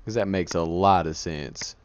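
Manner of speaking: slow dry sarcasm; sarcastic, drawn out. Real, not acted. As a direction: drag it out sarcastically. Sarcastic game comment.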